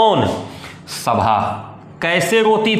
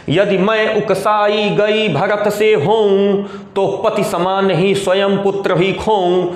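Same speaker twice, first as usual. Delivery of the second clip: verse recitation. Acted. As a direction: intone the lines on a level note, drawing out syllables. Recites the queen's oath in verse. (धीमे, लयबद्ध पद्य-पाठ)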